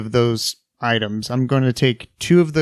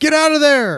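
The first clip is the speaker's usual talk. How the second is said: very high, loud scream of pain; 5 dB louder than usual. Player in a tabletop game, seeing ghouls attack an ally, pained scream. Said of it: "I scream in a very pained manner".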